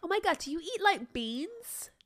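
lightly voiced sorority girl; a hint of a bubbly party girl. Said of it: "I'm gonna be the girl".

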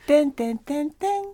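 sung airplane chime tones; chime imitation. Shown as a demonstration. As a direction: mimic the cabin chime. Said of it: "飛行機アナウンス風で".

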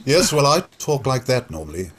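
lightly put-on actorly voice; a hint of drama-school diction; RADA voice. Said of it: "give me your Rada voice".

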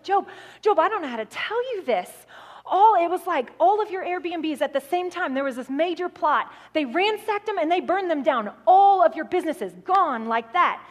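mild mock panic, rushing out the bad news; urgent voice of a frantic manager, lightly acted; freaking out. Business manager breaking disastrous news to her boss, mildly freaking out. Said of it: "she is freaking out".

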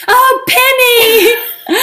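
very high, slow, drawn-out cooing call; dog voice. Retold or imitated. Friend calling her dog Penny in a high slow croon. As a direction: croon the dog's name lovingly. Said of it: "And so Meg would go".

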